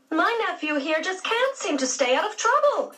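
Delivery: a weary aunt grumbling; exasperated. A narrator's reading. Aunt Daisy complaining to Henry about George, exasperated. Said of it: "she said in an exasperated voice".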